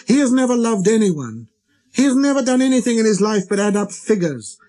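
put-on high, indignant child-prince tirade; little prince, angry. A narrator's reading. Little prince denouncing the red-faced gentleman to the pilot, angry. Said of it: "He really was very angry".

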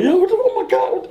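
high-pitched, flustered cousin; frantic imitation, tripping over words; retold panic. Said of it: "my cousin panicked".

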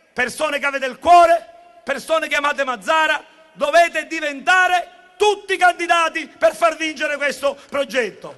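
loud rally cry to supporters; rousing shout to the crowd; booming balcony speech. Real, not acted.

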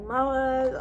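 put-on drowsy murmur of a boyfriend; lightly voiced sleepy boyfriend. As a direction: say it like he's half asleep. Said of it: "especially in his sleepy voice".

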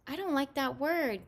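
high, slow, stressed reproach; scolding yell. A narrator's reading. Mom objects to Jamie's word, scolding. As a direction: draw it out in stern reproof. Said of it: "Mom yelled".

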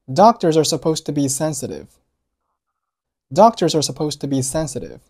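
"sensitive" given full weight in a clear model sentence; stress on sensitive. Shown as a demonstration. Teacher modelling the second line for learners, stressed "sensitive". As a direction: lean on "sensitive", keep "to be" light. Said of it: "sensitive做重读".

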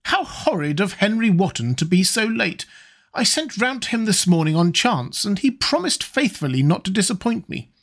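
put-on high, indignant old lady; scolding old hostess. A narrator's reading. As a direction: chide the latecomer like a put-out grande dame. Lady Narborough's quoted lines.

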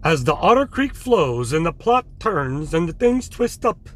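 slow, swooping soap-opera narrator; mock dramatic narration. Vlogger joking about the twisting plot, mock-dramatic narration. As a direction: narrate it slowly like a hammed-up serial teaser.

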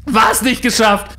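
slow, high, loud shout; wütend schreiend. Retold or imitated. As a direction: bellow the question furiously. (laut wütend brüllend)

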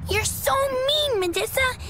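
high-pitched, sulky accusation; childish complaint. Acted. Child told to do it right, pouting complaint. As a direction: accuse her like a cross child.

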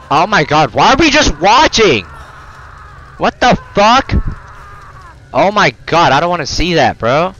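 high distressed outcry. Real, not acted. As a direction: plead in horror. Distressed watching cutscene.

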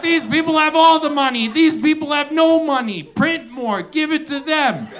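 high, sing-song reasonable suggestion; mocking proposal voice. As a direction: pitch it up like the obvious fix. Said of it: "They're like".

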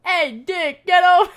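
hammed-up loud summons; bossy yell. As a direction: bark for him to come over.

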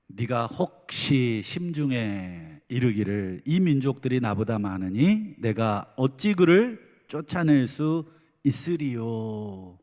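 slow solemn reading of scripture. Acted. Preacher reading the verse to the congregation, slow and solemn. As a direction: read the verse slowly and gravely. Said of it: "십칠 절을 한번 보실까요".

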